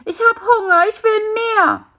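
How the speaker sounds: high, whining, insistent fly voice; greedy demand. Acted. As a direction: demand it like a starving child.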